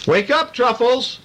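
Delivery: high, slow sing-song mother call; Mama calling. A narrator's reading. Mother calling her son Truffles awake, high sing-song. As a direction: call sweetly like a mother waking her child. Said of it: "Mama called".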